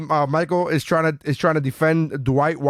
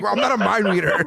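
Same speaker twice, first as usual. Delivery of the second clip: laughing quote; 5 semitones higher, faster than usual. Retold or imitated. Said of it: "He's like".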